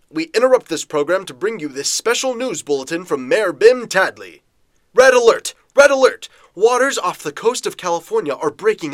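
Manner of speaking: brisk, punchy news bulletin voice; old radio announcer. Acted. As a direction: read it like a breaking radio bulletin.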